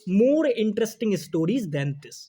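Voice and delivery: slow, careful reading of the correct phrase; slow model phrase. Shown as a demonstration. Teacher modelling the correct phrase, slow. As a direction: say it slowly as the right answer. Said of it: "normally आप क्या बोलेंगे".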